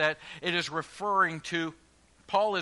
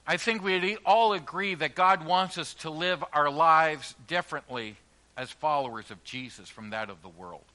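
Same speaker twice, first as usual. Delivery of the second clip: ordinary delivery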